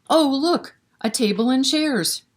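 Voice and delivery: breathy hushed delight, high; a child spotting a treasure, hushed; delighted gasp. A narrator's reading. Librarian reading to kids, hushed and delighted. Chicken delighted at tea set.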